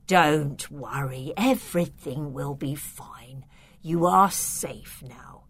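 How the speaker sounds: slow, whispered comfort; a count whispering that she is safe; hushed reassurance. Acted. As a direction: soothe her in a low whisper. Count soothes frightened guest.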